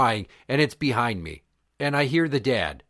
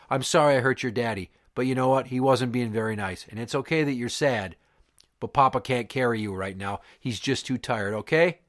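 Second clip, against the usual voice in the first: put-on imagined soothing talk to a small child; gentle reassurance; 2 semitones lower than usual. Man comforting a sad little boy, gently reassuring.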